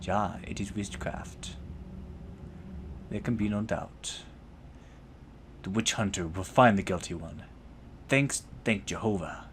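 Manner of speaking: lightly grim witch hunter, German tinge; understated grim verdict. Acted. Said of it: "his voice is grim".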